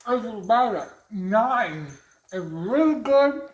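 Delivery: talking through a mouthful; words round a big bite; mouth full. Real, not acted. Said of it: "I shouldn't talk with my mouth full".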